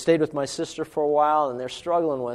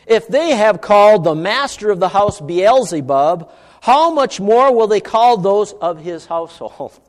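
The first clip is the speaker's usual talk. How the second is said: emphatic, raised-pitch recital of scripture; scripture reading; 4 semitones higher, 6 dB louder than usual. Acted. Preacher quoting what Jesus told his followers, emphatic reading. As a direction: proclaim the words firmly to the congregation.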